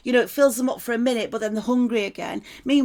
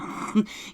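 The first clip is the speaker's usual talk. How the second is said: brief laugh; 5 dB quieter than usual. Real, not acted. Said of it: "I'm laughing".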